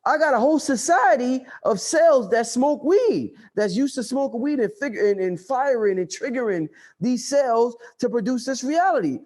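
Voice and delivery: lightly voiced brain protesting; brain talking. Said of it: "your brain is like".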